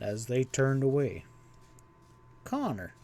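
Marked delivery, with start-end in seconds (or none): 2.4-2.9 soft muttered name; muttering. A narrator's reading. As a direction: mutter it to yourself. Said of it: "muttered Sam to himself".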